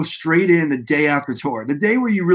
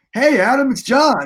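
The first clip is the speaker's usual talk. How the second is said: cheery, happy, pitched-up, good-mood voice; 8 semitones higher than usual. Telling how John phoned the next day after a gig, imitating John's happy voice. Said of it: "He's got this really like happy voice".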